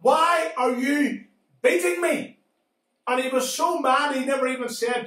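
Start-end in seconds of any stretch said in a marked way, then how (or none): 0.0-2.4 talking donkey. Acted. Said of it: "the donkey says".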